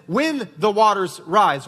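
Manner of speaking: slow, with weight on "When"; "When" drawn out and emphasized; stress on When. Shown as a demonstration. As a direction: lean hard on "When", then spread out the words. Stressing trials will surely come.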